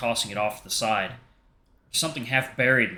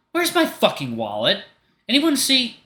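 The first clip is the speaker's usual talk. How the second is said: high, loud, slow frantic demand; angry search; 12 semitones higher, 5 dB louder than usual. Acted. Artemis yelling at everyone about his wallet, angry high shout. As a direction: bark it out at the whole group.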